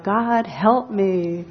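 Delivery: slow, drawn-out mock plea to heaven; crying out for help. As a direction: stretch out each word like a hammed-up cry for rescue. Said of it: "The man cried out".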